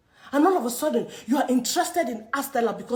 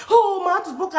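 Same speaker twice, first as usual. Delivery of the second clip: mocking social media post; 4 semitones higher, 3 dB louder, faster than usual. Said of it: "run to social media".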